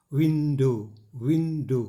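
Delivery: विंडो as two separate beats, WIN-DOW; syllable demonstration. Shown as a demonstration. Teacher counting breaths in विंडो for students, two-beat delivery. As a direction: give विंडो two distinct puffs of air. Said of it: "जो झोंका हवा का".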